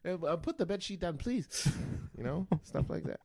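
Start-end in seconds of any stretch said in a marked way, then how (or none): 0.1-1.7 high, whiny voice of a confused partner; hammed-up high-pitched woman asking why he screams; mock girlfriend. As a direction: play her baffled and pleading. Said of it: "poor female's just gonna be looking at me like".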